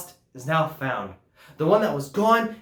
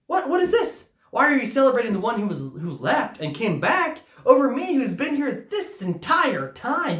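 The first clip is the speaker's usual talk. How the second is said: put-on indignant older brother; 5 semitones higher than usual. Older brother protesting voiced.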